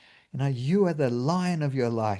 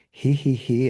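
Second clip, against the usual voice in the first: snicker demo; 3 semitones higher, 5 dB louder than usual. Shown as a demonstration. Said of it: "snickering up here".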